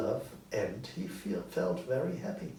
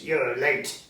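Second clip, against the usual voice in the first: loud gruff greeting, playing at old temper; loud mock-angry hello to a late clerk; 2 semitones higher, 6 dB louder than usual. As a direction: fake the old stern Scrooge. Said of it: "in his old angry voice".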